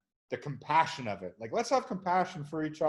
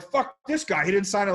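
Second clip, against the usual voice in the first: angry fan; 5 semitones higher, 5 dB louder than usual. Retold or imitated. Mock angry fan quote.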